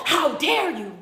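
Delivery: full-voiced "How dare you?", falling hard on dare; indignant rebuke. Preacher to a listener wasting days, indignant. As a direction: call the listener out.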